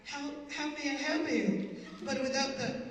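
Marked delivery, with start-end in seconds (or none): 0.1-1.7 mock polished voice. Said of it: "So he lowered his voice".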